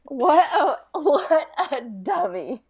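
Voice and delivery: helpless laughing disbelief; amused, slow mockery; laughing ridicule. Real, not acted. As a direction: drag the words out through laughter. Both laughing at John's stupidity.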